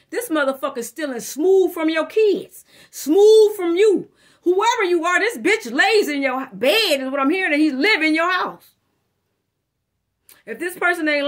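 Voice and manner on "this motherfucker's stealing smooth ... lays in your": emphatic warning. Real, not acted. Reader warning about energy thief.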